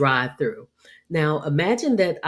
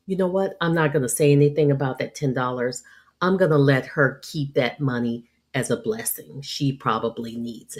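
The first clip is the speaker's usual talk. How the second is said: charitable. Retold or imitated.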